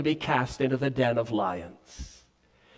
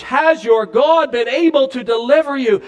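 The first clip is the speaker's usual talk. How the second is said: a touch of anguish, called out a little louder; anguished cry; 5 semitones higher, 4 dB louder than usual. Acted. King calling into the den, mildly anguished. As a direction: call out the question with worry. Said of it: "when the king cried out in anguish".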